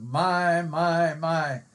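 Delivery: "my" said over and over, each held; repeated emphatic MY. Shown as a demonstration. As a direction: wear out the word my. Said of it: "wear that word out".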